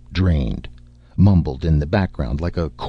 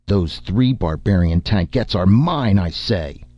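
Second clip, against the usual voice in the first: arguing noble; 3 semitones higher than usual. Acted. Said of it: "Two arguing voices rose".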